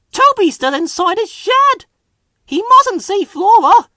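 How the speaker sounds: very high hushed alarm; a startled hushed cry. A narrator's reading. Thomas alarmed in story.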